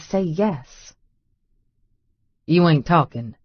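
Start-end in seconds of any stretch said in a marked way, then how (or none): 2.5-3.4 low male murmur. A narrator's reading. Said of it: "he murmurs".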